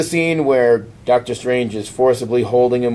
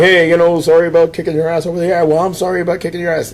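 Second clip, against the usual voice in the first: mock sheepish apology; 6 semitones higher, faster than usual. X-Men apologise to the Avengers.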